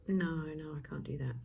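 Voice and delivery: whispered, unsure refusal; timid whisper. Shown as a demonstration. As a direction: shrink back and whisper it. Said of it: "if you kind of like".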